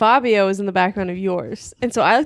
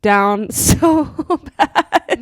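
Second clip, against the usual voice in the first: slow down and swell louder into laughter; real amusement breaking through the last words; laughing; 3 dB louder, much slower than usual. Real, not acted. Teasing McKay about her fall, laughing harder as she goes. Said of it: "It made me laugh".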